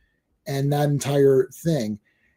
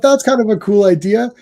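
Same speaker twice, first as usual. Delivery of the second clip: higher-pitched, pleased reaction; retold approval; 5 semitones higher than usual. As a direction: act out liking the idea at first. Retells pleased first reaction.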